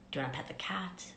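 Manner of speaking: soft whispered question to a little one; whispered tenderly. Shown as a demonstration. Speaker asks a small child gently, in a whisper. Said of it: "with tenderness".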